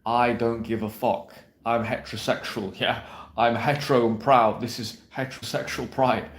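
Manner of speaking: strut it like a cocky straight guy; ballsy confident guy. Retold or imitated. Dating coach imitating a ballsy approach, mock swagger. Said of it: "in that ballsy way, that confident way".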